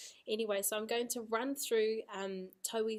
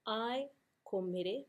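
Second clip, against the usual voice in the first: slow agreement; slower than usual. Shown as a demonstration. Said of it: "mā te reo teina".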